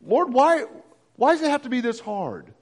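a hint of pleading; prayerful whining. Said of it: "Prayerful whining".

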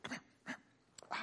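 hushed secret whisper to a friend; psst, lean in and whisper it. Acted. Disciple beckons John secretly.

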